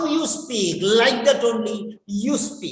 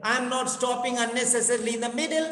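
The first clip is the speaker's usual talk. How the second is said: fluent demo; 3 dB quieter, much faster than usual. Shown as a demonstration. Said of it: "See, I'm also speaking".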